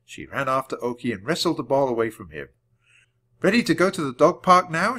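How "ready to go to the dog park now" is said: raised, louder question; calling out. A narrator's reading. Annie asks Jack about the dog park, calling over. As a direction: call it over to a friend. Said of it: "she called to Jack".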